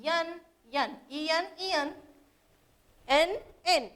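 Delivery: एन sounded out alone, twice over; repeated ending sound. Shown as a demonstration. Teacher showing pupils the shared rhyme ending, sounded out. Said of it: "लास्टचं जो letter आहे त्याचं pronunciation".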